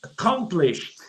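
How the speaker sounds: imitating a video game voice saying mission accomplished; lightly voiced game narrator; game announcer. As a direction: deliver it like a game's mission-complete announcer. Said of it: "ele falava assim".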